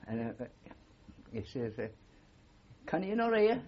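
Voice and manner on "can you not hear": the warrant officer snapping at a recruit who marched off, yelling; mock yell.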